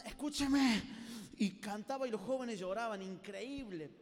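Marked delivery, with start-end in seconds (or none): 0.0-0.8 a louder mock preacher's call; preacher imitation. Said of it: "iba al teclado así".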